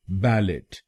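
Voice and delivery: बैलेट with the final T sounded; wrongly voiced T closing बैलेट; mispronounced with T. Shown as a demonstration. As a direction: say बैलेट as spelled, ending on a hard T. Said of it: "लेकिन ये pronunciation गलत है".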